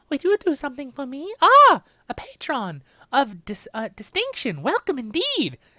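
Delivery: put-on loud, slow girlish voice. Playing a game, voicing an in-game character in a girl voice mixed with a hobbit voice. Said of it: "I mixed the girl voice with the Hobbit voice".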